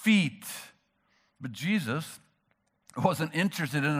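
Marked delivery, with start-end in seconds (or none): 0.0-0.5 a hint of a fired-up debater, louder; mock ready for a fight, louder; combative Peter. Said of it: "He's firing up the debate team".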